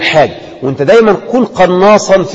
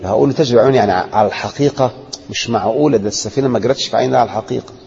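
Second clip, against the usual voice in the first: inner thoughts; 7 semitones lower, 6 dB quieter than usual. Retold or imitated. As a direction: lower and softer, thinking it over to yourself. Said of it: "كل ده بيدور في ذهنك".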